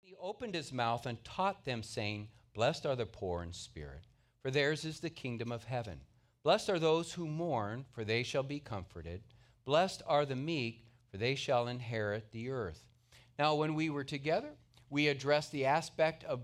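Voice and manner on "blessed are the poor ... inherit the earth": measured scripture read; a reading of the Beatitudes. Acted. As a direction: read the verses with reverence. Reads scripture aloud.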